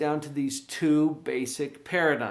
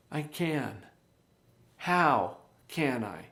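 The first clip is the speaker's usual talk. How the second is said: calm agent question; slower than usual. Shown as a demonstration. Coach shows the agent's calm open question. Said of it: "As opposed to".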